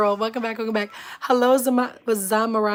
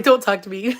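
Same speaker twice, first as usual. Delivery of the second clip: louder retort breaking into a laugh; playfully refuse, laughing through it; laughing mock offence; 5 dB louder than usual. Sister brushing off her siblings' teasing, laughing in mock offence.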